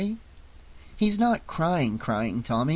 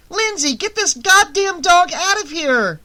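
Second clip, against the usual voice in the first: high loud furious shout; angry yelling; 5 dB louder than usual. A narrator's reading. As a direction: yell at the girl to fetch the dog. Dog attack, yelling for help.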